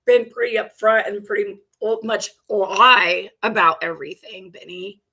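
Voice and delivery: loud mocking repeat; sarcastic. Real, not acted. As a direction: throw his words back, scornful. Mocks clip speaker's words.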